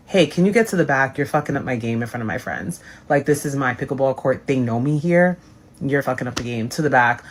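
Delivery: mock bossy boyfriend. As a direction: sneer it like a petty man hogging the court. Mocking Adam on pickleball court.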